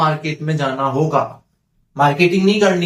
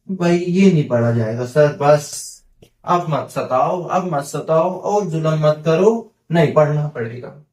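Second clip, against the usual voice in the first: mock student plea. Voiced student pleading.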